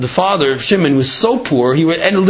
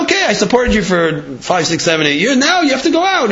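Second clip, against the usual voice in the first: high, raised voice of a father-in-law calling time; stern father-in-law; 6 semitones higher than usual. Retold or imitated. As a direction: bark out the ultimatum as the father-in-law. Father-in-law ends the support.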